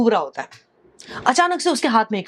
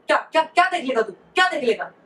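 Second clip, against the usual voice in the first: fast, angry retort from the shopkeeper; flaring up; 3 semitones higher, faster than usual. Retold or imitated. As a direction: snap back quickly in irritation. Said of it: "दुकानदार भड़क जाता है". (तेज़ी से भड़क कर बोलना)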